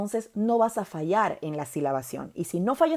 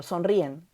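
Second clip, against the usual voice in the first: sonríen with the í stronger than the e; stress on the I; slower than usual. Shown as a demonstration. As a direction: say sonríen in three syllables, leaning on rí. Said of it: "La I suena más que la E".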